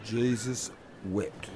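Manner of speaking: slow, soft exasperated jesus wept; weary muttered sigh. Acted. Mate fed up with Jim's rambling, slow soft mutter. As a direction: drag it out under your breath.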